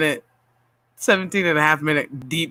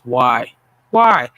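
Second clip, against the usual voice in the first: exasperated; 3 semitones lower, 5 dB louder than usual. Real, not acted. Venting to viewers about more Star Wars movies, exasperated. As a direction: escalate from groan to louder protest.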